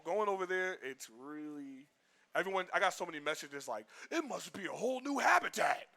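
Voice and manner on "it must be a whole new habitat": high, hammed-up gushing shout; mock awe. Imitating messages gushing about LA, mock awe. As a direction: imitate an overawed fan, pitched way up.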